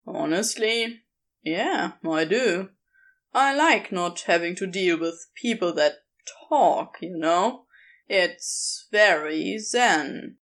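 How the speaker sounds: casual, a touch sly; lightly voiced Crowley.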